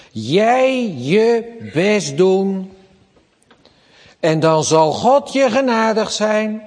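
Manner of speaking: imitating medieval church: do your best; mock demand. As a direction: drag it out like a stern church.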